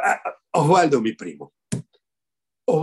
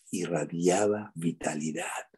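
slower softer sincere; 7 semitones lower, 7 dB quieter, slower than usual. Real, not acted.

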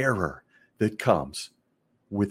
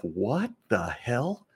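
put-on baffled kid; 2 semitones higher, much slower than usual. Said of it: "I'm thinking to myself".

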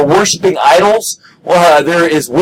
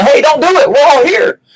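calls out a little higher; a raised call across the jail; 7 semitones higher than usual. Retold or imitated. Paul calls out to the jailer, raised voice. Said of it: "And Paul calls out".

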